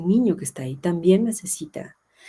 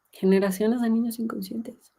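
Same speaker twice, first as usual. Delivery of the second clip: repeated higher, "niños" lifted for weight; emphatic echo; 5 semitones higher than usual. Shown as a demonstration. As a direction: echo the phrase higher to drive it home. (repetición enfática y más aguda)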